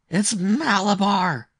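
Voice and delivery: put-on high, drawn-out boy's scream; powerful strange scream. A narrator's reading. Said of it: "he screamed in a powerful, strange voice".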